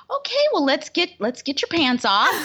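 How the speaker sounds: high squeaky laugh while mimicking the doctor; mock-cheery doctor, laughing; laughing through a quote. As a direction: giggle out the doctor's line.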